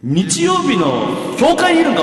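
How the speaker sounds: echoing comic protest; church-like echo. Real, not acted. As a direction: drag it out as if echoing through church.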